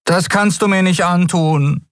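pleading Miko. A narrator's reading. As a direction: beg her not to do it. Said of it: "flehte Miko".

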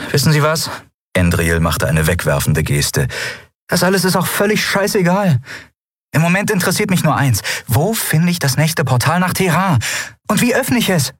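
a cheeky captain teasing the eidolon; young woman Endriel. Acted. Endriel proposes teasingly to Yunnan, playful high voice.

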